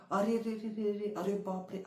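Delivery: loud alarmed cry at a crash; shocked cry. Shown as a demonstration. Teacher acting out a witness seeing a crash, alarmed cry. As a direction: cry out in alarm as cars collide. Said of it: "असं तुम्ही ओरडला".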